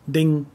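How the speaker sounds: ding, ending in ng as in English; Northern dialect ending. Shown as a demonstration. Teacher giving the Northern word for nail, ng ending. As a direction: say ding with a clear ng at the end. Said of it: "pronounced like N G".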